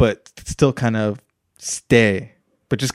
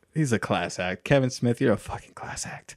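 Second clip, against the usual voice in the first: whispered praise; 8 dB quieter than usual. Real, not acted. Praising Kevin Smith.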